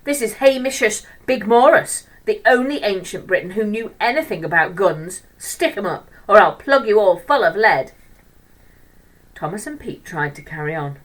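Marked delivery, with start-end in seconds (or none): 0.0-7.9 loud, higher mock-gangster boast; a cocky kid's hammed-up gangster roar. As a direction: disruptive boy playing a gun-toting Briton, roaring. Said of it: "he roared".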